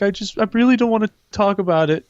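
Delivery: imitating upset girl. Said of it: "And she's like".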